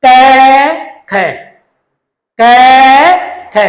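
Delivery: क, ख, क, ख। spoken as paired letter sounds with pauses; teacher contrasting two letter sounds; sounding out letters. Shown as a demonstration. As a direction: compare क and ख aloud, one by one. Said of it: "इन दोनों की ध्वनि समान है".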